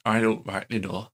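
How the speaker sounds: slow, lightly put-on northern English accent. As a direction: drawl it out slowly in a mild northern accent. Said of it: "give me a northern accent".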